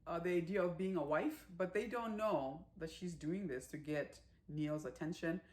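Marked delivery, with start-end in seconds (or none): 0.1-1.5 excited mother-in-law. Retold or imitated. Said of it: "the mother-in-law is so excited".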